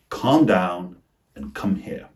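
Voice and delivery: CALM with long AH, COME with short UH; vowel contrast. Shown as a demonstration. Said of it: "distinguishes it from the word come".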